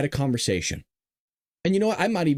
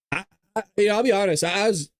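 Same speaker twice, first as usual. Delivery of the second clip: real, slightly choked-up voice; halting, holding back emotion; 7 semitones higher, faster than usual. Real, not acted. Reacting honestly to a mother's plea, a little choked up. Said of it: "getting a little choked up".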